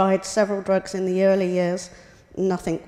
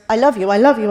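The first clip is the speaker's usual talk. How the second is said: imitating husband; 8 dB louder, faster than usual. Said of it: "he might say to total strangers".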